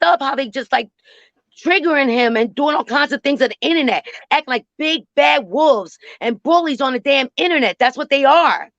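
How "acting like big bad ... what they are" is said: angry rant. Real, not acted. Ranting about online bullies.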